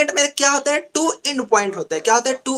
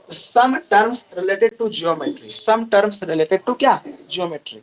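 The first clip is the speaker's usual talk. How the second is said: slow dictation; 2 semitones lower, much slower than usual. Shown as a demonstration. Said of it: "teacher dictating slowly".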